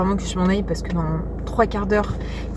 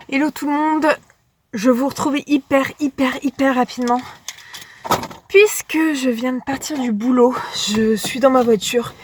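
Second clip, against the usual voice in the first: parle à bout de souffle; voix haletante, souffle court; essoufflée. Real, not acted. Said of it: "Ouh, je suis essoufflée". (essoufflée en parlant)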